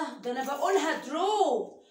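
lightly voiced shocked pupil; surprised student. Teacher voicing a shocked student questioning her. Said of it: "صف ايه اللي انت بتقوليه ده تيتشر".

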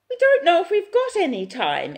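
loud, high desperate shout; mother shouts at police over lost time. A narrator's reading. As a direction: shout it at them in panic. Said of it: "Esther shouts".

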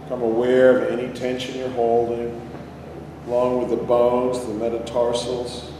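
calm, unhurried meditation guide; guided meditation. Real, not acted. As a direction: lead them inward with long pauses. Leads a body-scan meditation.

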